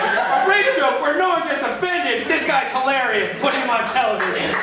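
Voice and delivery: high, laughing mock awe; impressed executive. TV executive discovering the janitor, high mock awe. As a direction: rave like a dazzled TV exec. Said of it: "someone's gonna be like".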